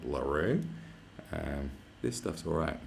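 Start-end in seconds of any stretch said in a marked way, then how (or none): 0.1-0.6 Australian LaRue. Shown as a demonstration. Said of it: "sounds better in an Australian accent".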